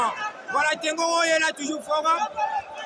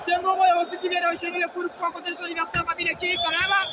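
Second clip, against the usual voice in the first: excited commentary; 4 semitones higher than usual. Real, not acted. Live boxing commentary, fighters trading punches.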